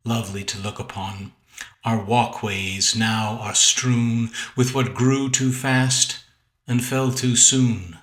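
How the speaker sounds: poem recitation. Acted. Poet reads second sonnet.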